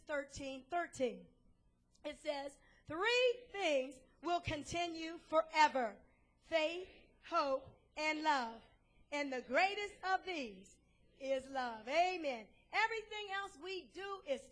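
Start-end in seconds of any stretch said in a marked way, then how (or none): 2.9-11.9 measured, emphatic verse reading; deliberate reading with weighty pauses; scripture reading. Acted. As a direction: declare the verse phrase by phrase.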